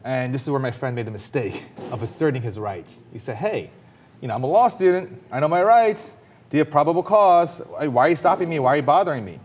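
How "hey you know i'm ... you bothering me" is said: raised, much higher and louder, indignant demand to the cop; retold defiant protest. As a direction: replay him standing up for his rights, loud and high. Friend asserting his rights to cop.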